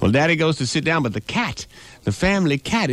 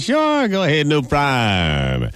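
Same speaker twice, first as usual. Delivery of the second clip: lightly voiced old lady; slower than usual.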